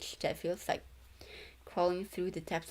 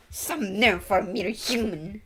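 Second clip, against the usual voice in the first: slow, louder, put-on proud sneer; haughty character voice; 8 dB louder than usual. Streamer voicing a proud character looking down on a human, slow haughty sneer.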